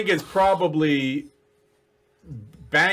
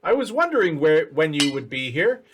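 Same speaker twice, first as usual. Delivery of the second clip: goblin voice; 2 semitones higher than usual. Acted. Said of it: "looks through and says".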